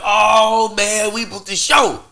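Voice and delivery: high, loud, thrilled retelling of the celebration; excited celebration. Retold or imitated. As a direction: relive the joy of booking the show, pitch way up. Celebrating booking the show.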